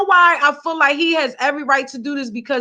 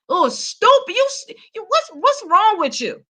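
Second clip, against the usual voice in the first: put-on voice, scolding someone dumb; a mock scold, voiced to tease; 3 semitones higher than usual. Vlogger mock-scolding a singer in a put-on voice.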